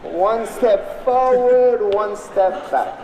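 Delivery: slow, rhythmic step-calling chant; dance call. Shown as a demonstration. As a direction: lead the crowd through each step. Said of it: "Everybody try it now".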